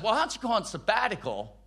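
imitating insincere advice; ulterior motive. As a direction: suggest it briskly, wanting them gone. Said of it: "their purpose was much different".

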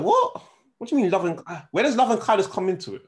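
high disbelieving what, then exasperated; incredulous. Retold or imitated. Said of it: "I was like".

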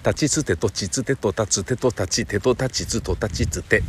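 slow, deliberate ta-row drill; slow articulation drill. Shown as a demonstration. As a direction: drill each syllable slowly. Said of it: "ダメだな。".

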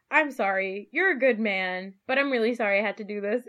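a touch of fake remorse after the stab; mock insincere apology. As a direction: apologize while not meaning it. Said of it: "he's like".

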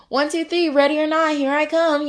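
high, sing-song counting call; hide and seek call. Pretend. A seeker counts in hide and seek, high and sing-song. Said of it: "hide and seek scene".

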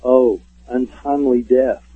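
slow, drawn-out theatrical actor voice. Retold or imitated. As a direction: intone it slowly like an old stage actor. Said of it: "you hear a voice go".

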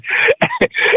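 very high, breathless squeal of a laugh; high wheezing laugh. Real, not acted. Guest cracks up at his own story, wheezing high. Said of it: "This guy has the best laugh I've ever heard".

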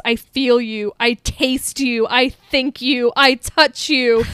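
slow, deliberate creepy stalker lines; a hint of a serial killer savoring each word. Quoting the tape's creepy line, slow and lightly menacing. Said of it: "the most serial killer thing".

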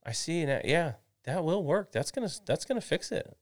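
high-pitched imitation of dad coming round; won-over dad. Dad looking at the tightened bolt, won over. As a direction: act out dad suddenly approving the repair. Acts out dad approving the fix.

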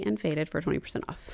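soft whispered promo code. Real, not acted. Ad read trailing into whisper.

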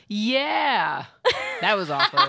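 laughing. Real, not acted. Bursts out laughing after awkward intro.

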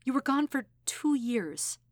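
trembling voice. Acted. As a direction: hold back tears as you say two years. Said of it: "Her mouth was trembling".

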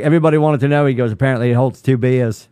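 half-hearted Australian imitation; attempted Australian accent. Golf fan retelling a player's video, attempted Australian accent. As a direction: try an Australian accent, not quite landing it. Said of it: "I can't really do an Austra".

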